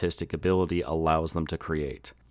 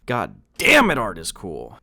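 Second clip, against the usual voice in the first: loud happy exclamation; excited outburst; 5 dB louder than usual. Real, not acted. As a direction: burst out with joy. Outburst of enthusiasm.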